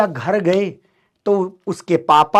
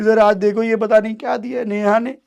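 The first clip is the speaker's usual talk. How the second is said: tearful complaint to the teacher; mock weepy schoolboy telling on a classmate; crying face voice; 3 semitones higher than usual. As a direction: whimper it like a hurt child. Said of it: "रोते हुए चेहरे में मैंने उनको बोला".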